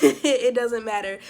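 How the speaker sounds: laughing through the words. Real, not acted. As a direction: laugh as you say it. Laughing while talking.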